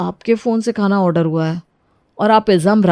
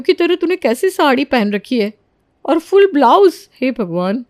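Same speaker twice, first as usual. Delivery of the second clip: mock horror; 4 semitones higher than usual. Friend Leela mocks Rani's village-style blouse, in scandalised high horror. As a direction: act aghast at the outfit.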